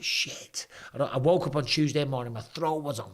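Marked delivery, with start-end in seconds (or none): 0.0-0.7 whispered curse. Retold or imitated. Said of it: "I was like".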